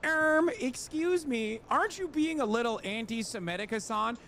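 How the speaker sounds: mocking a scandalized critic; mock prissy critic. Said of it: "motherfuckers go".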